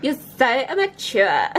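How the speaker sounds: slow mock replay of "You're so immature"; imitating own line. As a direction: repeat "You're so immature" in a hammed-up, sneering way. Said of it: "That sounded immature".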